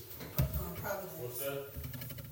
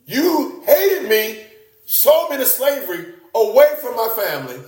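Joseph's hurt charge; 6 semitones higher than usual. Acted. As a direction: speak Joseph's wound to his brothers. Joseph voiced confronting brothers.

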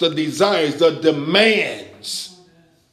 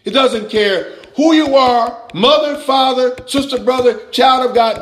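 normal talking voice

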